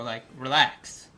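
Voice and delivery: slow hushed whisper. Retold or imitated. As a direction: whisper slowly to calm him. Pleading with the angry neighbor.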